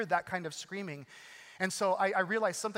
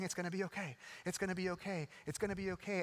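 retold gentle reassurance, a touch insistent; lightly acted comforting father; mildly soothing; faster than usual. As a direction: repeat it to calm a crying child. Father soothing screaming injured daughter.

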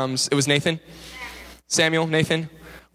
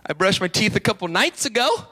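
sheepish excuse; 4 semitones higher than usual. Retold or imitated. Caught boy offers a weak excuse.

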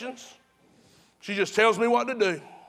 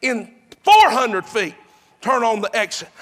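GPS lady prompt; 2 semitones higher, 7 dB louder than usual. Retold or imitated. Preacher imitating his GPS lady to a zoned-out driver, insistent prompt. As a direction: lightly mimic an insistent navigation voice. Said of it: "that British lady's saying".

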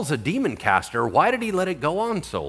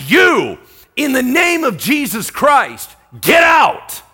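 slow, loud, higher command; commanding exorcism shout; 9 semitones higher, 7 dB louder, slower than usual. Acted. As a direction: cast the demon out with full force. Paul casting out the demon.

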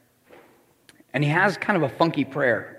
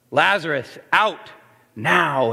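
firm, restrained repeat of a shout; authoritative command; slower than usual. Acted. Jesus ordering Lazarus out of the tomb, firm command. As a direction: command it in separate beats, moderately raised. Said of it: "a shout of raw authority".

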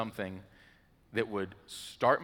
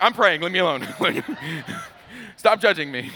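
defensive retort; 9 semitones higher, 11 dB louder than usual. Retold or imitated. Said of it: "I'm like".

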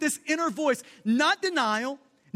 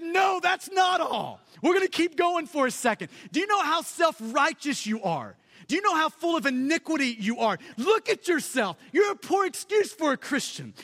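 taunting Satan; 3 semitones higher than usual. Retold or imitated. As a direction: hammer him with scorn. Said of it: "And Satan said".

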